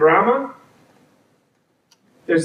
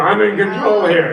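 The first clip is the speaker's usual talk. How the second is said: Admiral Hay quote; 5 semitones higher than usual. Retold or imitated. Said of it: "Like Admiral Hay, remember".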